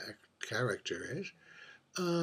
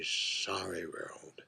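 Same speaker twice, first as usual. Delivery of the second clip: whispered; 4 semitones lower, 9 dB quieter, much slower than usual. Acted. Drag queen musing on sorry world.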